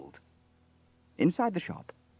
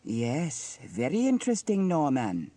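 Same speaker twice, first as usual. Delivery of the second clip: high, exclaiming busybody, then collecting herself; nosy gossip, riveted; 8 semitones higher, 3 dB louder than usual. A narrator's reading. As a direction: get carried away spying, then compose yourself. Narrator voices Dilys spying.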